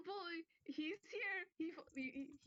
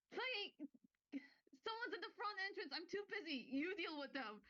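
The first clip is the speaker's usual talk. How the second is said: higher, fast, harried complaint; busy archivist; 7 semitones higher than usual. Acted. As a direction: rattle it off, too busy to care. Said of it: "the voice just goes".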